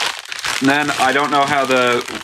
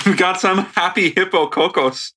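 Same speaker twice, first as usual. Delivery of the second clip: put-on German accent on English words; 3 semitones higher than usual. Co-host reading an English candy name, mock German accent. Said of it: "say it in a German accent".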